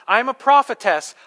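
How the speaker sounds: high, loud mock proclamation; self-proclaimed prophetess. Preacher acting the lady who comes up, mock prophetess proclamation. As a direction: announce yourself grandly as a prophetess. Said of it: "this lady comes up and she says".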